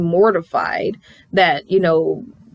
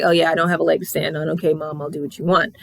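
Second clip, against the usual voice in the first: meek son giving in; 3 semitones lower, faster than usual. Retold or imitated. Son gives in meekly.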